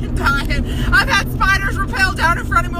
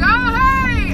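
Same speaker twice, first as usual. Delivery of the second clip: high-pitched, put-on friendly hello; retold awkward greeting; 7 semitones higher than usual. Replying to a former coworker outside a bar, put-on greeting. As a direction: imitate an overbright surprised hello.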